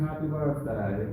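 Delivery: lightly hammed-up English accent; put-on English accent. Sensei announcing the birthday song, in a mock English accent. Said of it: "in your preferred English accent".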